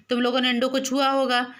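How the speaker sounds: mildly angry scolding; angry mother. A narrator's reading. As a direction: accuse the children sharply. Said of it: "गुस्से से बोली".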